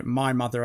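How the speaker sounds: "My" emphasized to set it against someone else's; stress on MY. Retold or imitated. Explaining what Buffy implied, stress on "My". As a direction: lean on "My", not "mother". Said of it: "as in, not Dawn's mother".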